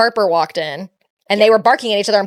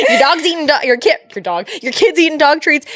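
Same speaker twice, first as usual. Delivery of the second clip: mock vet scolding; 6 semitones higher than usual. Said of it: "she's like".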